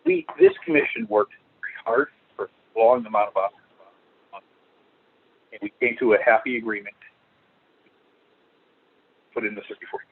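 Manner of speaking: bad phone line cutting out; broken-up audio on a call; breaking up. Real, not acted. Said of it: "You're breaking up".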